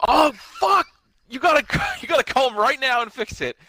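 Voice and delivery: high, panicked yelp of alarm; flustered boss realising the wrong Marty was signed; mock panic. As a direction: play the sudden oh-no moment, hammed up. Retelling Omega's panicked reaction.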